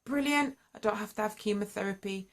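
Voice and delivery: bright retelling of new hope; excited. Retold or imitated. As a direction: relive the moment hope arrived. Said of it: "got me excited".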